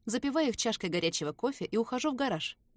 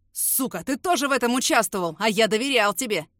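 louder betrayed shout; furious yell; 6 dB louder than usual. Acted. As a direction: scream it at the traitor. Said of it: "орёт Лукас".

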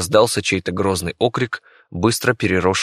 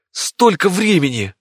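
higher, slow, stronger despair; dismayed; 10 semitones higher, 3 dB louder than usual. Acted. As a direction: repeat it more desperately. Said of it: "не мог подобрать ни ругательных слов".

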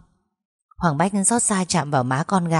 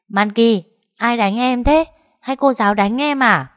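anxious asking; 6 semitones higher, 4 dB louder than usual. Acted. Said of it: "sốt sắng hỏi".

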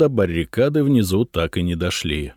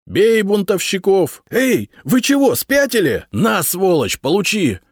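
higher, louder shouts from the fray; shouting fighters; 12 semitones higher, 4 dB louder than usual. A narrator's reading. Rebels and guards shouting outside, loud. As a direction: yell it across the clash of steel. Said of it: "Кто-то кричал".

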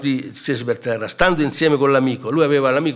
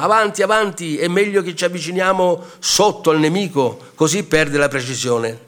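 retold captain's shout; 4 semitones higher than usual. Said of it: "Il capitano gridava".

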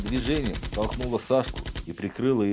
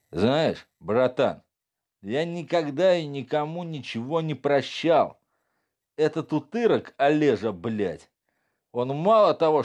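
put-on drunk thug; 5 semitones higher than usual. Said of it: "Опьянев".

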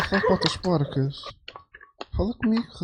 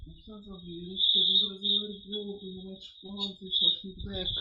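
muttered aside; 8 dB quieter than usual. Real, not acted. Muttered insult aside during call.

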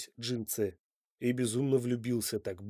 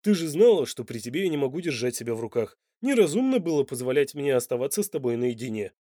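reasoning; 5 dB louder than usual. Acted. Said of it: "рассудительно сказал Данте".

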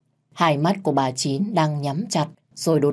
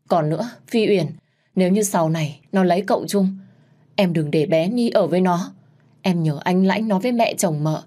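a dying woman's last tearful wishes; choked voice; 2 semitones higher than usual. Acted. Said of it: "mợ nghẹn ngào nói với tôi". (giọng nghẹn ngào, gấp gáp)

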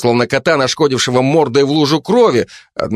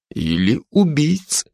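wry smirk; 5 semitones higher, 3 dB quieter, slower than usual. Acted. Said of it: "сказал Жек с усмешкой".

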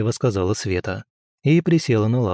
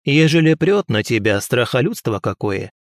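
put-on advising old woman. Old healer explains Black City ways to the prince. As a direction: teach him like a village witch.

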